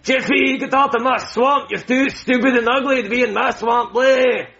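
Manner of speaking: hammed-up ogre grumbling at Jeffy; Shrek impression. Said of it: "you're not supposed to pop Shrek".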